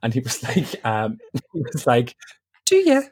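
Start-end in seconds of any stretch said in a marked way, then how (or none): 2.6-3.0 high squeaky shocked question; imitating a stunned brother; surprised brother. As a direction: gasp it out, caught off guard. Brother reacts to coming out.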